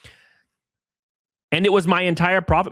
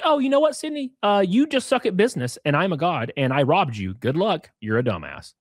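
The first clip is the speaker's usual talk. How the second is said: mocking the partner; 4 semitones higher than usual. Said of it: "So he's like".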